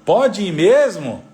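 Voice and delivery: high, slow, loud questioning; husband double-checking. Acted. Husband asking wife if he may really go, doubtful. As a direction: imitate a husband asking for confirmation. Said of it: "ele pergunta assim".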